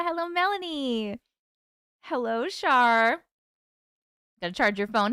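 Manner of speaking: talking while chewing gum; words around a wad of gum. Real, not acted. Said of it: "I'm chewing gum for the moment".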